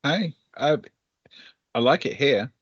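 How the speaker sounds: lightly voiced newcomer marvelling at snow; Leah delighted by snow.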